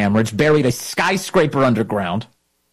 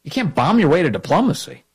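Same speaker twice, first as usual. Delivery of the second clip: incredulous repeat. Real, not acted. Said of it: "What are you talking about?".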